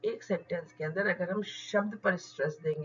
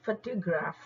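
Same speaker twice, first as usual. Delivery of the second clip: फोटोग्राफ with FO stressed; फोटोग्राफ said as FO-tuh-graf; stress on first syllable. Shown as a demonstration. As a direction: lean on the opening FO of फोटोग्राफ. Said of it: "इस वाले फनेम पर जरूरत से ज्यादा stress".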